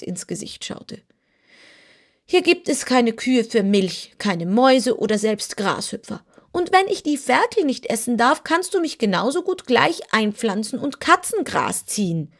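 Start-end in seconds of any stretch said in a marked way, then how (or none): 2.3-12.3 higher, lightly voiced begging kitten; pleading kitten. Kitten complains to Dorothy it has nothing to eat. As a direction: keep the whine going, sulky.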